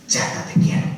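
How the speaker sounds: whispered Chata, te quiero; an intimate whisper from the heart; tender whisper. Shown as a demonstration. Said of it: "Así".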